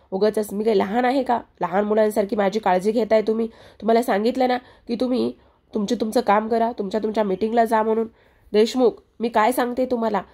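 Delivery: a touch of annoyed scolding, lightly acted; understated vexed telling-off; mild irritation. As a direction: narrate her mildly exasperated protest. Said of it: "चिडते आणि म्हणत असते".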